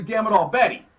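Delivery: exasperated curse. Retold or imitated. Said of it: "it was usually".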